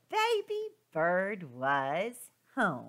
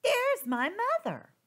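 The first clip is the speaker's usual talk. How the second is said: high, eager little bird voice; a tiny chick calling out happily; high chirpy baby bird; 14 semitones higher, 6 dB louder than usual. Acted. Little bird spots its mother.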